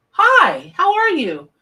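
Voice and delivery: high, loud, happy hello; bright excited greeting. Real, not acted. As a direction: greet them with delight. Greeting a viewer on a stream.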